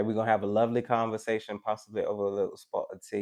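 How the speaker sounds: light, quick put-on British accent; a playful touch of British English; little British accent. Reader invites Laura to tea, light British accent. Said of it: "my little accent for you".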